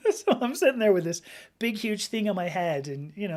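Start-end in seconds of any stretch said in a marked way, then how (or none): none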